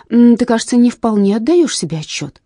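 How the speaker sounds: grave expert. A narrator's reading. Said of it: "приняв озабоченный и очень серьёзный вид".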